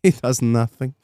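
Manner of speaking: lightly imitated French accent; deadpan French kennel man. Kennel man describing the dog, light French accent. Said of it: "I think he's French".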